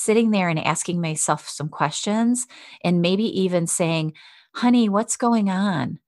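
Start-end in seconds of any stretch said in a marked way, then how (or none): 4.5-6.0 a touch higher, gentle "Honey" to yourself; compassionate. Shown as a demonstration. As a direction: soothe yourself like a loved one. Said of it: "being very compassionate".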